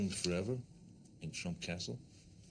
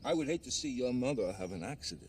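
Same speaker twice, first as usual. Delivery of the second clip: New York accent; 5 semitones higher than usual. Shown as a demonstration. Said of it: "old-timey New York ruffians".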